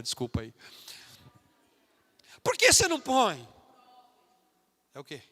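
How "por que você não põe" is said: high, jeering schoolyard taunt, mildly hammed; a light imitation of mocking teens; mocking classmates. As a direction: sneer at the believer's clothes like a teasing kid. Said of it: "Vão começar a chacotear".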